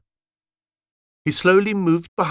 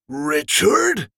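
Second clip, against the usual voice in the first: put-on higher, wondering old soldier; old scout unsure of what he sees; Roger calling out; 4 semitones higher than usual. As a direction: call his brother's name in surprise. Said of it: "said Roger".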